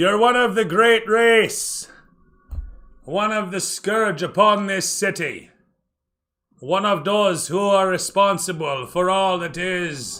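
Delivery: high, very loud shout. Narrating a game, one of them on nearby rooftops shouts down at the player: shouting down from rooftops. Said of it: "one of them from the nearby rooftops shouts down".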